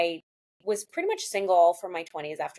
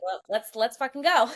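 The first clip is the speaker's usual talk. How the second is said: higher, laughing let's go; laughing hype; 5 semitones higher than usual. Real, not acted. Newly out and ready to date, laughing excitedly. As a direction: cheer yourself on through a laugh.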